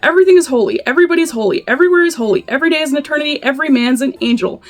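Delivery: incantatory reading, leaning on each repeated holy; poem recitation. Acted. Reading Footnote to Howl aloud, emphatic poem recitation. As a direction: chant the litany with rolling emphasis.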